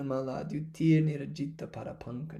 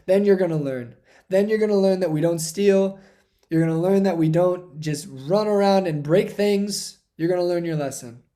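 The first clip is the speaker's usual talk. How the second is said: mildly stern parental warning; stern scolding; 4 dB louder than usual. Acted. Mother tying up her son, mildly stern. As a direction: lay down the rule, pressing each point. Mother voiced threatening a lesson.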